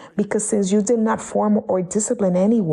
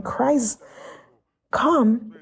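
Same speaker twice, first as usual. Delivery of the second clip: crying out; 4 semitones higher than usual. Shown as a demonstration. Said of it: "Instead of crying".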